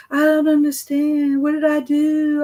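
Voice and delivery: put-on high, a bit loud, whiny kid protest; be the put-out third grader; indignant student. Teacher imitating student's high, whiny protest.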